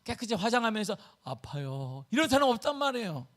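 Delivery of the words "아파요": soft, low, understated complaint; mock composed patient. Preacher mimicking an implausibly composed patient, soft mock complaint. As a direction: say it daintily, as if barely hurting. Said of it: "웃으면서 치-, 얼굴에 막 깨끗이 화장하면서".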